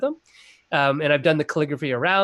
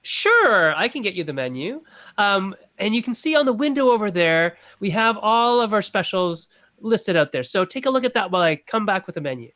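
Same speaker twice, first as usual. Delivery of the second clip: lightly voiced, lilting server patter; obliging restaurant server; 4 semitones higher than usual. Server points customers to the specials, obligingly. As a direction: play the helpful server, pitched a bit up.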